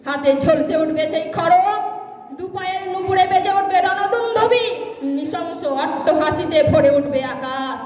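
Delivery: dramatic Bengali verse recital, deliberate pauses between phrases; poem recitation. Acted. Former student reciting a poem in tribute to the principal, dramatic recitation. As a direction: declaim it, rising and falling with each refrain.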